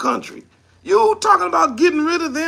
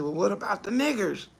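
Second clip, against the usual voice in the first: quoted suggestion; 6 semitones lower, 6 dB quieter than usual. Retold or imitated. Comedian quoting someone in a meeting, low mock voice. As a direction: lower and softer, a mock boardroom voice. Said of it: "somebody said".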